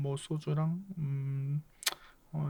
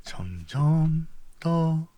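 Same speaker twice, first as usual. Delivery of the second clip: slow sad musing; much slower than usual. Acted. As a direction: let it drift away, regretful. Narrating sad departure, very slow. (아주 느리고 조용하게 아쉬워하며)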